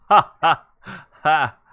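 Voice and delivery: booming hammy ha ha ha; loud mock laugh. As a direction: belt out a big fake laugh.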